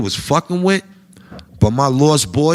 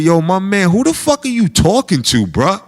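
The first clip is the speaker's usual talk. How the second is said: confrontational; 8 semitones higher than usual. Retold or imitated. Comic confronting the band member, challenging him. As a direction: square up to him with the question. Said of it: "I told that nigga".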